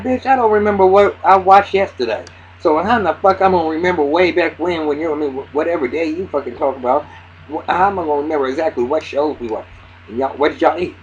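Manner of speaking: loud, high pretend rant at a nosy detective; hammed-up disbelief, as if she's been asked the impossible; pretend exasperated rant. Vlogger mocking the detective's questions, loud and fed up. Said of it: "I would have been like".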